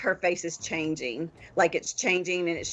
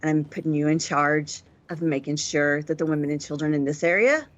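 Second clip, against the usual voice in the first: menacing warning. Acted. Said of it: "she's like".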